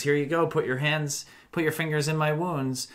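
Jesus offering. Retold or imitated. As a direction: hold out your hands to Thomas. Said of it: "Jesus says".

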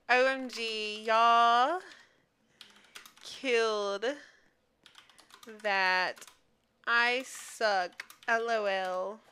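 word by word with long pauses; typing aloud. Real, not acted. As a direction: slowly spell out a chat message. Types chat message aloud.

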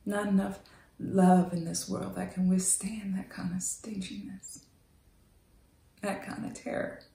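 hushed, intimate whisper. Acted. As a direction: barely breathe the words to him. Intimate confession to Wendell.

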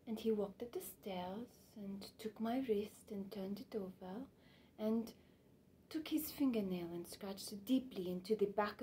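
lightly acted hushed recollection with lilting rises; the speaker storytelling. She recalls meeting Picasso on the stairs, mildly hushed and intimate.

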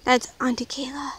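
soft unvoiced whisper. Real, not acted. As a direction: whisper the answer. Whispered answer.

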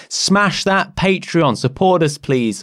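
slow, high hype-man plea; YouTuber voice. Pretend. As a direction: ham up a YouTuber outro. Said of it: "I've been watching too much YouTube".

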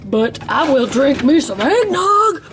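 slow, playful relish, swooping pitch; excited. Real, not acted. Telling viewers about loving eggnog, drawn-out excitement. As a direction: draw it out with gleeful relish.

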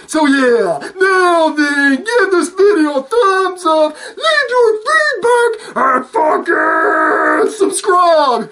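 strained, cracking outro, pitch jumping up; voice giving out. Real, not acted. YouTuber signing off to subscribers, strained cracking voice. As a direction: push through a worn-out voice. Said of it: "Hear my voice going out?".

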